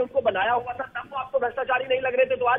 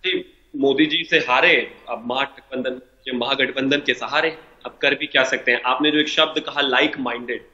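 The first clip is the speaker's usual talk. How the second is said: bad connection; 5 semitones lower than usual. Real, not acted. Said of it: "आपकी आवाज कट कट के आ रही है".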